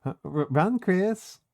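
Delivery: put-on valley girl Susie telling Chris to lead. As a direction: play a sassy Valley Girl bossing a friend. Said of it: "Valley Girl Susie's really funny".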